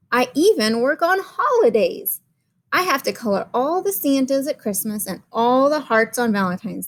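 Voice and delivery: put-on a worn-out crayon grumbling to its kid; a hint of weary complaint, read to children; overworked Red Crayon. Red Crayon's letter read aloud.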